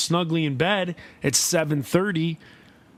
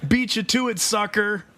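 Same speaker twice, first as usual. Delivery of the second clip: taunting; 5 semitones higher than usual. Pretend. Taunting joke.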